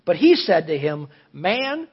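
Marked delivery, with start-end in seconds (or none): 1.3-1.9 Jesus exasperated. Retold or imitated. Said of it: "I like the way he said that".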